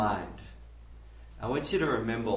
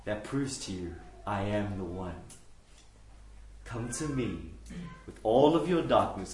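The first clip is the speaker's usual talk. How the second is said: tender Messiah; 4 semitones lower than usual. Acted. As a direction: coax them near like a kind shepherd. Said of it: "a Messiah come ... then go".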